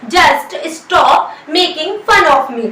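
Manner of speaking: very slow, word by word dictation; slow model sentence. Shown as a demonstration. Teacher dictates the English sentence very slowly. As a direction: spell it out slowly for the class. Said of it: "तो आप बोलिए".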